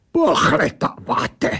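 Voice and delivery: slow, scornful echo in an odd voice; the angel scornfully echoing the narrator's question; snapped back. Acted. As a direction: bark the word back like the strange creature. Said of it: "vybafla ta věc".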